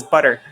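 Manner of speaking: "butter" with slurred double T; American-style "butter"; American flapped butter. Shown as a demonstration. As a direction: say "butter" the American way, T as a quick tap. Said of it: "double T in butter for American pronunciation".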